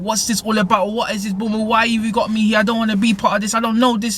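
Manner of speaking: a hint of a frightened girl asking questions; confused girl. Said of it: "she's just getting confused".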